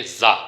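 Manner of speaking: "زا" with a buzzing z and long open aa; Chinese pronunciation. Shown as a demonstration. Teacher modelling for students, Chinese pronunciation "زا" with long aa. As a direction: say "زا" as one long zaa syllable. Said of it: "اس کی Chinese pronunciation ہم".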